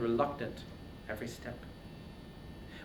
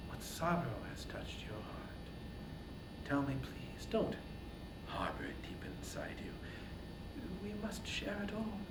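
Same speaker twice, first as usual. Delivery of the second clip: soft, whispered motherly comfort; tender whisper; 9 semitones higher, 16 dB quieter than usual. Acted. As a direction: hush him gently like a mother. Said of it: "whispering his name".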